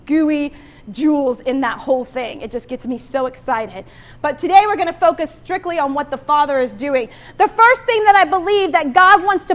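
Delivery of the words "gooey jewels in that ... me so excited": emotional. Real, not acted. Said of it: "I just get so emotional".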